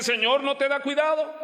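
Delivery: high, scolding complaint to the Lord; scolding Martha. Retold or imitated. Martha scolding Jesus for not caring, in a high nagging voice. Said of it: "en ese tono".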